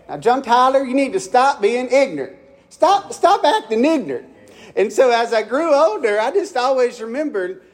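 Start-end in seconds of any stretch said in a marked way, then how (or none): 0.1-4.3 scolding mama. Retold or imitated. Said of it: "She'd say".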